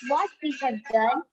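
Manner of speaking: measured, singsong recital with rise and fall; poem recitation. Shown as a demonstration. Student reciting a poem for an online class, singsong recitation. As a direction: recite it line by line, pausing between phrases. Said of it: "you have to recite a poem".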